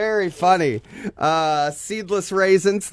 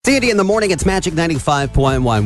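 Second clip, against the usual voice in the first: mock radio ident read; radio announcer; much faster than usual. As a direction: sell the station like a jingle. Radio station ident, announcer style.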